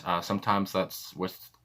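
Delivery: words running together, mumbled; slurring words. Real, not acted. Reading lyrics notes, slurring his words. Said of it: "why am I slurring my words?".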